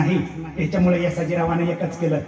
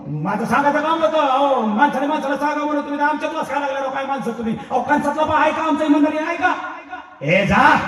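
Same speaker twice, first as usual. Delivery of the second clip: angry scolding; 5 semitones higher than usual. Acted. Angry lord scolds messenger.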